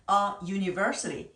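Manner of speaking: "a university" as uh yoo-niversity; demonstrated pronunciation. Shown as a demonstration. Teacher models a before university, careful pronunciation. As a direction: say "a university" with schwa, then a clear y glide. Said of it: "이렇게 발음하게 됩니다".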